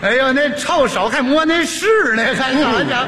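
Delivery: 说风凉话. Acted. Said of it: "开始说风凉话".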